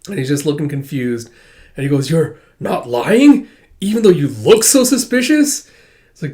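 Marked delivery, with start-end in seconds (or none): 2.1-5.7 tag. Acted. Suspicious questioning of a stranger.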